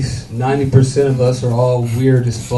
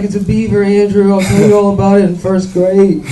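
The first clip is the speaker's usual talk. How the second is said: lightly raised mom voice; mom's voice; 5 semitones higher, 3 dB louder than usual. Retold or imitated. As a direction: play Mom calmly explaining to her small son. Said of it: "She's like".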